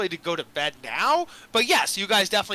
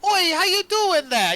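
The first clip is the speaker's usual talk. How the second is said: high, drawn-out mock British lilt; hammed-up British accent, pitched up; 10 semitones higher, 5 dB louder, slower than usual. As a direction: put on a loud, slow British greeting. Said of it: "like, a British lilt".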